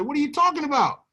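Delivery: shocked high question, pitch jumping up; retold disbelief at bad news; stunned disbelief. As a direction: react like the floor just dropped out. Shocked reply to shutdown news.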